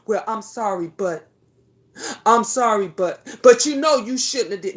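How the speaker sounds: a lightly mocked half apology, "I'm sorry" hedged with "but"; mock grudging apology. Mother voicing the wrong apology a parent gives, grudging. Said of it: "Don't say you sorry with her".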